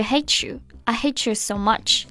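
"hate you" fused as "hay-chu"; linked speech. Shown as a demonstration. Teacher shows the singer's linking, "hate you" run together. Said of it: "它也连读在了一起".

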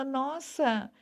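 understated, acted indignation; mildly indignant. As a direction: voice a mildly cross complaint. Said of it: "A gente fica até meio bravo".

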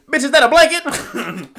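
high, loud, drawn-out mock outrage; imitating friend's outburst. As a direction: mimic your friend, exaggerated and loud. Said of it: "You said it exactly like that".

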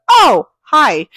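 high, loud surprised hello; bright greeting. Retold or imitated. Barista recognizing Courtney, high happy hello. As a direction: greet her like an old friend. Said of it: "And she goes".

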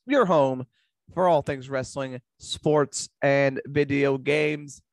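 upbeat host announcing the show; podcast intro voice. Acted.

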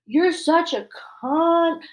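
abusive customer. Retold or imitated. Imitating abusive customer on the phone.

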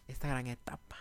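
breathy whisper. Real, not acted.

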